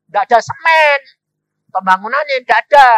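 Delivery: high, forceful acted report; builder's alarm, shouted high; loud complaint. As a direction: cry out the shortage.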